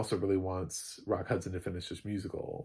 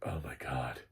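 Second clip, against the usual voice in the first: tag smitten swoon; 6 semitones lower, 5 dB quieter than usual. Retold or imitated. Acting smitten women's reaction.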